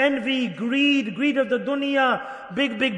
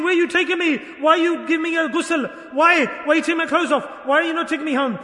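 higher-pitched, mildly frantic pleading of the dead; imitated crying out; 4 semitones higher, 4 dB louder than usual. Dead man protesting as he is carried off, imitated shocked cry. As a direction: cry out questions in mock shock. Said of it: "he's crying, shrieking".

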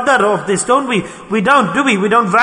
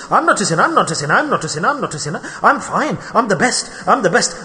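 repetitive up-and-down chant of denial; singsong mock self-justifying. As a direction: imitate someone smugly insisting on their innocence. Mimics sinners in denial.

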